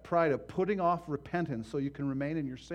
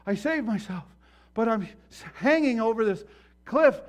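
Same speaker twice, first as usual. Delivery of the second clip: man clinging to a cliff; 7 semitones higher, 10 dB louder than usual. Acted. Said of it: "the man who fell off a cliff".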